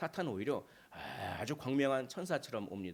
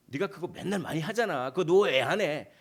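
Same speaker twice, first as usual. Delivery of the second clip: pushy Satan; 4 semitones higher, 8 dB louder than usual. Acted. Satan pressing again.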